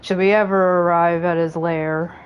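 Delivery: dry, curt dragoon read; lightly voiced brooding warrior; Estinian voice. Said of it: "I gotta do an Estee voice".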